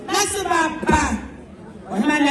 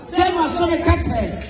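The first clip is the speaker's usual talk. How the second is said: slow shout; much slower than usual. Acted. Storyteller calls out slowly.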